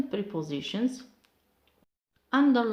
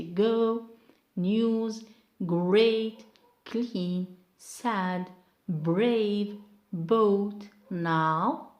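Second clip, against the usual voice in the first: each word from GO to EAT stressed fully and set apart; whole-word stress; 4 dB louder, much slower than usual. Shown as a demonstration. Teacher reading out the one-syllable list, each word fully stressed. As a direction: punch every short word on its own. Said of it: "we underline the whole word".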